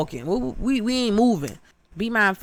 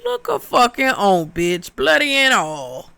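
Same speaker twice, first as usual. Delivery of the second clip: high-pitched startled outcry at the screen; shocked exclaim; 8 semitones higher, slower than usual. Retold or imitated. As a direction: yelp it like the ghost just jumped out at you. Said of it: "I said".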